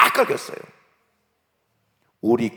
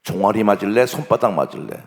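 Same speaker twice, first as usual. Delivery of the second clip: louder, firm questioning; stern offer; 6 dB louder than usual. Acted. Principal gives pupil a choice of punishment, stern.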